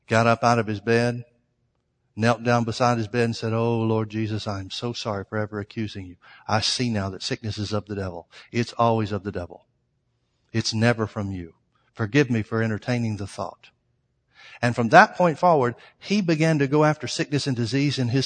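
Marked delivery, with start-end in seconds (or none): 3.5-13.7 softly lowered, humbled apology; repentant prayer. Retold or imitated. Pastor kneeling by his bed to apologise to the Lord, humbled and subdued. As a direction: confess it in a low, subdued voice.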